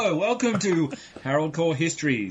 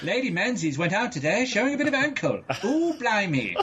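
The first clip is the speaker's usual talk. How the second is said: put-on campy old-time thirties radio announcer voice, pitched up; 5 semitones higher than usual. Joking about someone listening to thirties cricket audio, speaker does an old 1930s radio voice. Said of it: "old radio from the thirties".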